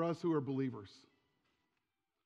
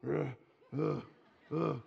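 short guttural grunts like a growling dog; imitating a football player's grunts; 4 semitones lower, slower than usual. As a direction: grunt it out like a lineman at the line. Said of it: "It sounded like a dog growling".

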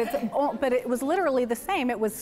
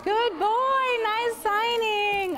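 high, slow, drawn-out praise; 10 semitones higher, much slower than usual. Real, not acted. Mom praising a toddler's signing, high and slow. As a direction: stretch the praise out for a little one.

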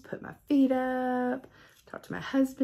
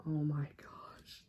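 slow, soft, breathy gasp of wonder; hushed amazement; awed whisper; 5 semitones lower, 11 dB quieter, slower than usual. Real, not acted. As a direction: whisper in disbelief.

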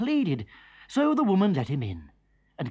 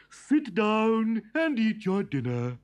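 wife's voice; 6 semitones higher than usual. A narrator's reading. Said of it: "said his wife".

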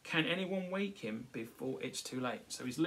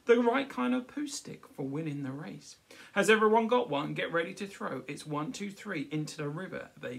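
put-on girl's voice; 5 semitones higher, 10 dB louder than usual. Girl voiced in picture book.

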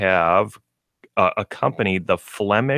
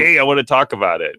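lightly voiced eager owner, higher and quick; vocal dog owner; 5 semitones higher, 4 dB louder, faster than usual. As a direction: pipe up like a talkative pet owner. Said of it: "a little more vocal".

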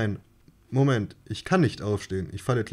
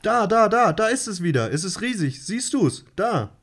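much higher, breathless rush; excited pointing; 9 semitones higher than usual. Acted. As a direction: point it out in awe. August sees the light again. (aufgeregtes Zeigen, viel höher)

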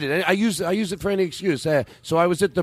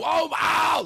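high, shouted fake "ow"; mock yelp of pain; 13 semitones higher than usual. Imitating Eddie pretending the toupee hurt, high mock yelp. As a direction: yelp as if your scalp came off. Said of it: "you were gonna have the nerve to go".

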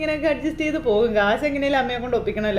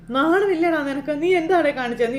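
angry scolding; 3 semitones higher than usual. Retold or imitated. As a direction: tear into him for crying like a child. Mother scolds son.

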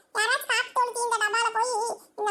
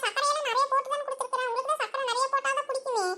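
normal talking voice

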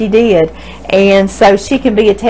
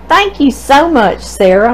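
higher, sincere and tender thank-you; heartfelt thanks; 4 semitones higher than usual. Real, not acted. Answering the letter writer warmly.

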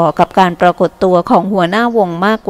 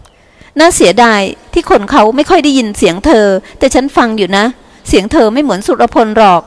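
knowing reassurance; 3 semitones higher than usual. Acted. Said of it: "เธอพูดอย่างคนที่คุ้นเคยกับเสียงนักร้อง".

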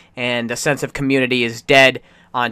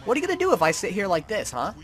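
mock taunting; 2 semitones higher, faster than usual. Taunting NPCs in GTA.

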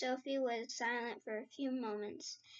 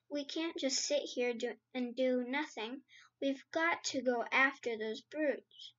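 raised, urgent outcry; crying out. Acted. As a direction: cry it out, desperate to act. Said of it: "cried out".

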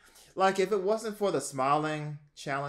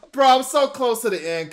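excited; 10 semitones higher, 11 dB louder than usual. Real, not acted. Still laughing, losing challenge.

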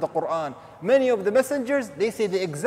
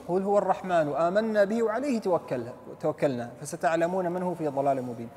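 measured Arabic verse recitation; Quran recitation; 3 semitones lower, much faster than usual. Acted. Preacher reciting the next verse to listeners, Quran recitation. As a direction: recite the verse in a sustained, flowing line.

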